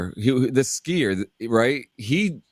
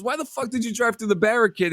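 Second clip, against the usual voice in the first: mock yell; 9 semitones higher, faster than usual. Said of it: "the guy was like".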